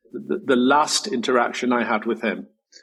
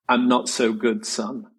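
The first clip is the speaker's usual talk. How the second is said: understated. Retold or imitated. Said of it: "the most understated way possible".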